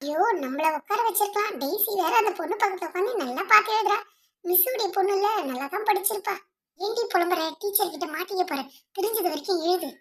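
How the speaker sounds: hushed plea to a classmate; exam whisper. Acted. Pupils whisper complaints in exam. (பரீட்சையில் மெல்லிய கிசுகிசுப்பு)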